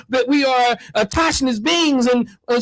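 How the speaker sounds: a hint of mock oratory; mock philosophizing. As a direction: imitate a self-styled philosopher. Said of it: "he was philosophizing".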